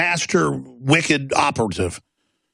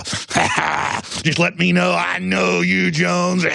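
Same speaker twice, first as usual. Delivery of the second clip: mock elite; 3 semitones higher, much slower than usual. Mocking elites at parties.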